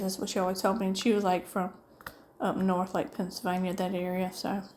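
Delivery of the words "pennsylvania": ordinary talk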